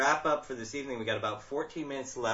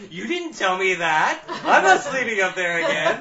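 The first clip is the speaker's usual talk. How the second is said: mock-outraged loud, high protest; Stacy K; 7 semitones higher, 12 dB louder than usual. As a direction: act out an alarmed listener, laughing through it. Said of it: "Stacy K's like".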